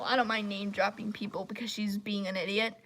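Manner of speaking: quick unvoiced aside; whispered aside. Real, not acted. To viewers about the rude user, whispered. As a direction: drop to a whisper for the jab.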